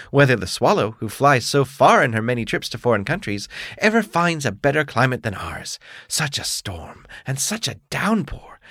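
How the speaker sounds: a proud frog boasting of rain. Acted. Other frog praises weather.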